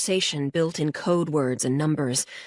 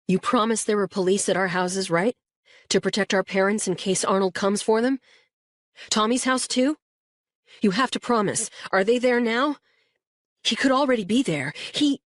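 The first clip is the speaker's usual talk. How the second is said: frightened; 4 semitones higher than usual. Acted. Frightened boy pleading for parents.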